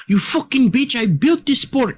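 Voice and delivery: high, squeaky put-on outburst; mock tirade in a tiny high voice; Conor as Hasbulla. Co-host imagines the fighter's indignant rant, high-voiced impression. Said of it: "Dude, that sounds like Hasbulla".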